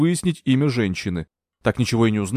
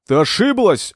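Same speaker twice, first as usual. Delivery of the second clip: loud, high "Ты ошиблась!"; Anthony shouting his denial at Margaret; 8 semitones higher, 5 dB louder, slower than usual. A narrator's reading. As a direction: yell it at her. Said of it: "закричал Энтони".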